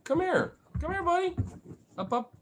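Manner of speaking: very high coaxing pet-talk; calling a dog. Real, not acted. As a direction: coax the dog up in a high falsetto.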